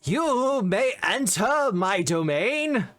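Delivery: slow, grand and commanding; lich voice. Acted. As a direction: speak like a mighty undead lord. Lich speaks for the first time.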